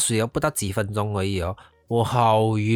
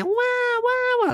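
very high, long wows from the crowd; mock wow; much slower than usual. Fellow snorkelers gasp at fish, a high mock wow. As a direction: mimic the crowd's amazement. Others amazed around her.

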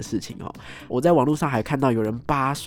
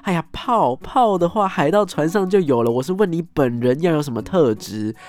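higher, exasperated scolding; exasperated master; 4 semitones higher, 4 dB louder than usual. Retold or imitated. Master scolds the clueless student, exasperated. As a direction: sigh it out, fed up with the student. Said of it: "一副恨铁不成钢的样子".

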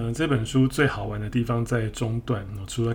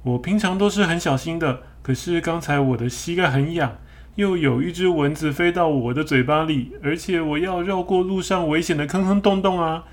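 high, defensive string of excuses; excuse-making apology; 6 semitones higher than usual. Acted. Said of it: "这个河马说".

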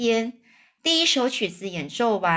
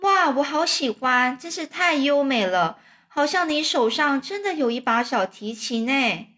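lightly voiced boy, higher and admiring; delighted boy; 5 semitones higher than usual. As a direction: marvel like an enchanted child. (小男孩惊喜赞叹的高音)

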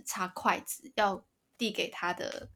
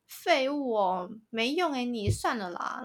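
mock scornful girlfriend; 4 semitones higher than usual. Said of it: "我刚刚为什么要学她讲话".

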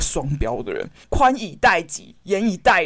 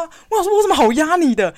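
ordinary talk

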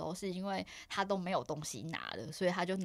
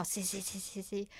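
slow repeated C; 7 dB quieter than usual. Shown as a demonstration. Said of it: "我就是按C".

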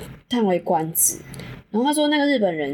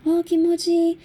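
much higher, breathy-sounding mock porn moans; mock Japanese moaning; 9 semitones higher than usual. Mocking what the Japanese man said at climax, high hammed-up moans. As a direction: ham up the Japanese climax cries. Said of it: "射的时候也会讲".

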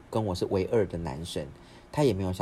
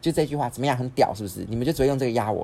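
defiant challenge; 4 semitones higher, 5 dB louder than usual. Retold or imitated. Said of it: "我弟就瞪大眼睛就指我说".

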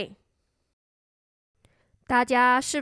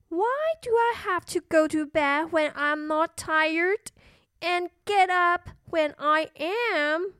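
put-on higher little-girl protest; complaining little princess; 5 semitones higher than usual. Little princess questioning bedtime, mildly complaining.

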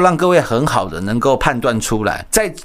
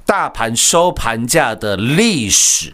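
over eager infomercial; 5 semitones higher, much slower than usual. Acted. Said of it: "hyping the market to viewers".

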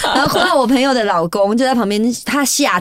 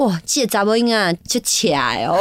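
Taiwanese Hokkien elders; 4 semitones lower than usual. Retold or imitated. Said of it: "他们阿公阿嬷想说".

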